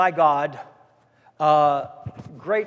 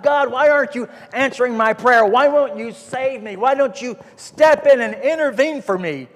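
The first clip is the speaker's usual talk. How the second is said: crying out; 5 semitones higher, 4 dB louder than usual. Retold or imitated. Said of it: "he's crying out to God".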